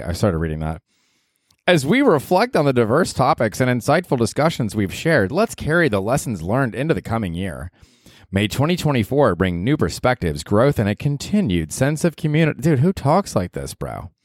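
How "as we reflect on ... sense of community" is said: sing-song, lilting formal read; speech read-out. Acted. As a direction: read it like a canned year-end address. Reads out a generated speech.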